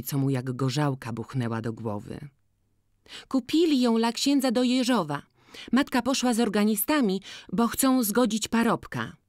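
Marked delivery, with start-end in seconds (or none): 3.3-9.2 put-on high, loud, bright-eyed girl complaining of the seller; lively village girl. Jagna asking Boryna to judge the cap, high and loud. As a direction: pitch it up and call out to Maciej.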